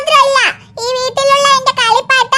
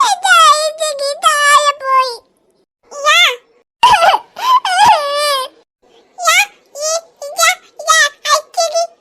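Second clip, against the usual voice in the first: crying. Acted. Little girl cries to dad over her dropped ice cream, tearful wail. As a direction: sob it out like a heartbroken little kid.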